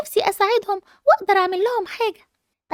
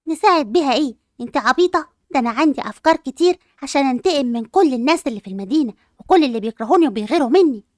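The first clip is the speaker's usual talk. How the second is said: lower, scornful scheming tone; sneering aside; 4 semitones lower than usual. Acted. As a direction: drop the sweet act and sneer. Scheming girl drops the act. (سخرية ماكرة بصوت منخفض)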